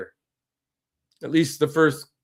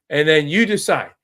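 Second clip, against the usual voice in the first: Jimmy Haslam; 4 semitones higher than usual. Retold or imitated. Host imitating the Browns owner pleading, mildly raised and mocking. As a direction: play the owner admitting he's an idiot, lightly mocking. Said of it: "if I was Jimmy Haslam, I would say".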